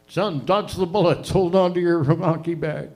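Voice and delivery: lightly voiced dad, urgent; a hint of a worried father calling advice; dad hurrying his son through danger; dad's warning.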